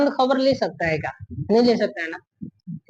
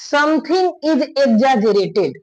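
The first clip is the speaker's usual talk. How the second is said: slow reading; 2 semitones higher, much slower than usual. Shown as a demonstration. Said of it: "लिखा है".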